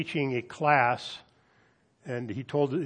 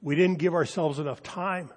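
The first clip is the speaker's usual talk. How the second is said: higher, imploring student voice; pleading students; 4 semitones higher than usual. Retold or imitated. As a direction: beg the professor for mercy. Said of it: "They pleaded".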